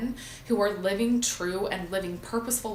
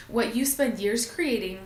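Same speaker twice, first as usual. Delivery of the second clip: tearful; 2 semitones higher than usual. Real, not acted. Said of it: "I'm getting emotional".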